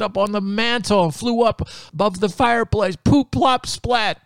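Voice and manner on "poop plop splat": high, much louder plops; loud sound effect. Acted. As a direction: announce the mess with glee. Chickens messing the house.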